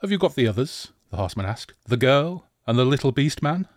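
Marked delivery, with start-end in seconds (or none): 0.0-0.9 demanding villain. Acted. 1.9-3.7 scornful villain. Acted. Villain asks about captives.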